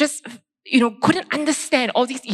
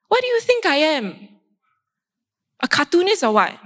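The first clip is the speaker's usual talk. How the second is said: higher, faster, puffed-up protest; retold indignation; 4 semitones higher than usual. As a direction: vent wounded pride, half mocking herself. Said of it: "I was angry".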